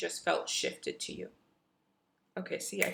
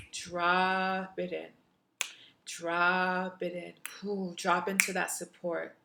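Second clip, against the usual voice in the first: guided meditation. Acted. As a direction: guide them gently into the memory.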